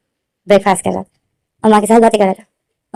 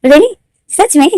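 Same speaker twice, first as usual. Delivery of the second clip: excited son; 6 semitones higher, much slower than usual. Retold or imitated. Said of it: "wing बोलते".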